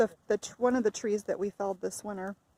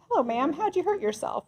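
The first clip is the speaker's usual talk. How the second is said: doctor voice; 7 semitones higher, 5 dB louder than usual. Pretend. Acting out an ER doctor.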